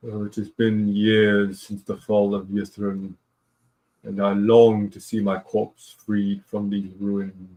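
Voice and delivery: slow, understated mournful ghost; lightly voiced weary spirit, drawn out; mildly sad spirit. Game master as gaunt spirit longing for rest, mildly mournful. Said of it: "with its sad expression, and it says".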